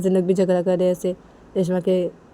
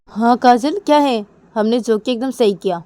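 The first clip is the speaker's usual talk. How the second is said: loud, higher-pitched comeback; defiant retort; 4 semitones higher, 8 dB louder than usual. Acted. Cousin tells Kajal they did right, defiant and loud. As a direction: stand your ground at raised volume.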